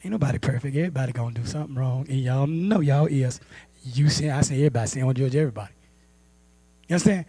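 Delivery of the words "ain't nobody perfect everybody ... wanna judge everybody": low, soft dismissive mimicry; doubters' grumbling. Doubters excusing sin to holiness people, low grumbling. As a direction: imitate sceptics grumbling low and quiet. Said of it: "They say".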